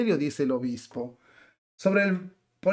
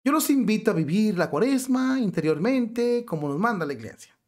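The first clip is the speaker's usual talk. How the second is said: higher-pitched mock bishop brushing off questions; mock-pious refusal, pitched up; mimicking evasive bishop; 5 semitones higher than usual. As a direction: lightly imitate a bishop dodging controversy. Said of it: "rehuye a la pregunta del cartel y dice".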